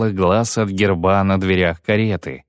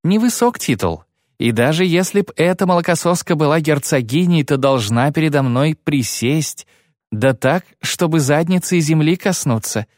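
1 menacing; 5 semitones higher than usual. Acted. Ciri threatening the girl.

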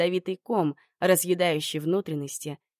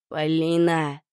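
threatening low voice; 3 dB louder, slower than usual. Acted. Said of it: "угрожающе низким голосом".

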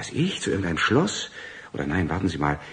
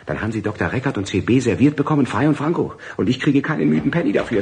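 bitter rant; 5 semitones higher, 4 dB louder than usual. Acted. Bitter rant about lost payment.

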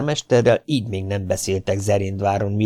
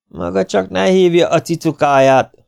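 growled rebuke; 9 semitones higher, 6 dB louder than usual. A narrator's reading. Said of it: "mordult rá a hadvezér".

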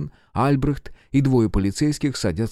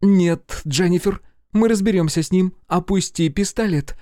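high, loud pleading call; urgent loud plea; 10 semitones higher, 4 dB louder than usual. A narrator's reading. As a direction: stop her from shooting. Agent begs her lower gun.

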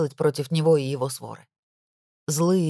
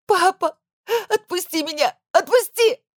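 loud, high, frantic pleading; desperate screams; 5 dB louder than usual. A narrator's reading. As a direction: scream to be let go, rising. Pleading then screaming at captor. (отчаянный крик, вырываясь)

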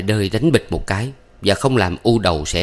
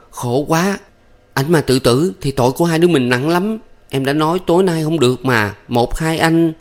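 higher plaintive moaning lament; whimpering lament; 8 semitones higher than usual. A narrator's reading. Thắm lamenting to her lover, whimpering. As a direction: moan out her regret. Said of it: "rên rỉ".

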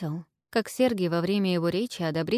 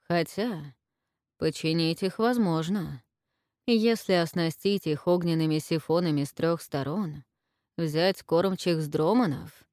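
thoughtful businesslike tone. Acted. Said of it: "иным, задумчиво деловым тоном".

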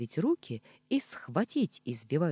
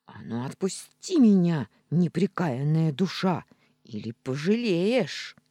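1 angry threat; 3 semitones higher, 6 dB louder than usual. Acted. Cat threatens angrily.

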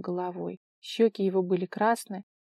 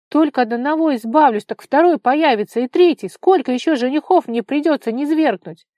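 angry scream; 6 semitones higher, 13 dB louder than usual. A narrator's reading. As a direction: scream it out in rage. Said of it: "зло прокричала Вара".

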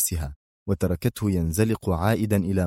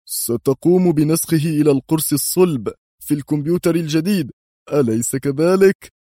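higher, louder keen question; interested; 7 semitones higher, 4 dB louder than usual. A narrator's reading. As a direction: ask eagerly, seeking confirmation. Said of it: "سأله قدري في اهتمام".

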